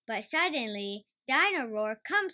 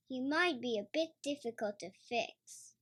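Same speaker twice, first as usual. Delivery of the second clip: doubtfully; 3 semitones higher than usual. Acted. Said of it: "says Daddy Pig doubtfully".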